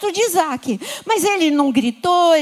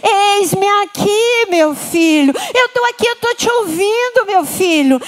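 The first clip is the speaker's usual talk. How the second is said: voice of God; 5 semitones higher, 3 dB louder than usual. Acted. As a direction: answer gently as a loving father. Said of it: "E ele responde pra você".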